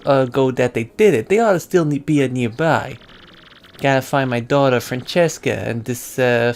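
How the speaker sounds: lightly voiced gangster giving a job; measured, drawn-out mobster delivery; mob boss. Boss explains his eloped daughter to the hired hand, measured mobster.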